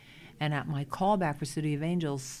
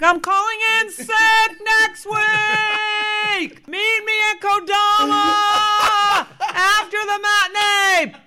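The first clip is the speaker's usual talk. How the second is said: high, slow stage yell; 11 dB louder, slower than usual. Retold or imitated. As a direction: yell it over the cannons. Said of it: "used to yell out things".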